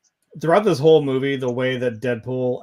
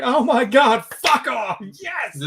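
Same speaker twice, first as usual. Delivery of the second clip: much higher, giddy squeal of delight; giddy outburst; 10 semitones higher, much slower than usual. Retold or imitated. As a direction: gush like an overexcited fan. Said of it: "sometimes I'm just really giddy".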